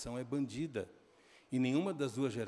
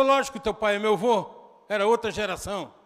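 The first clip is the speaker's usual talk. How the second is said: acted angry shout; 6 semitones higher, 11 dB louder than usual. Son retold shouting back.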